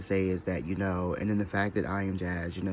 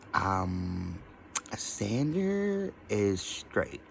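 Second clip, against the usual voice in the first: mock prim voice; much slower than usual. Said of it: "And she's like".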